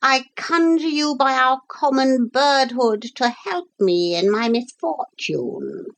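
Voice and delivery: high, solemn parrot plea; formal, heartfelt appeal from a parrot; earnest. A narrator's reading. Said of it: "said the parrot earnestly".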